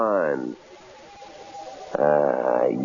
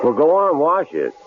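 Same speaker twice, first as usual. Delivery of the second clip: barked order, higher and louder; harsh command; 11 semitones higher, 3 dB louder than usual. Acted. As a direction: bark it at her like a threat. Killer orders her to wash axe.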